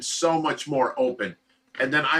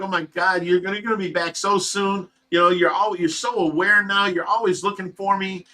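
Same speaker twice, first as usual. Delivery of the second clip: higher, eager praise; excited encouragement; 5 semitones higher than usual. Retold or imitated. Husband encouraging his waking wife, higher and excited. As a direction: cheer her on, thrilled she's responding. Excited about wife's alertness.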